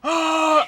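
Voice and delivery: high, loud "ah"; imitated cry. Imitating the cry she heard.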